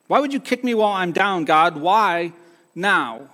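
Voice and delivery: a pained, rising mock shout at God; shouting back at God. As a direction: cry out at God, hurt and accusing. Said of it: "I shouted back at God".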